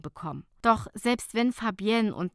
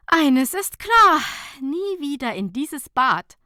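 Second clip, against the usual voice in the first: laughing vow; 6 semitones higher, 9 dB louder than usual. A narrator's reading. Nicola vowing to Fabienne never to return, laughing. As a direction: swear it through laughter. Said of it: "sagte Nicola lachend".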